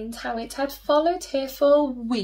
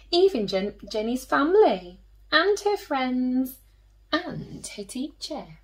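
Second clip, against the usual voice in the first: put-on storytelling to children. A narrator's reading. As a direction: tell it like a bedtime story for little ones.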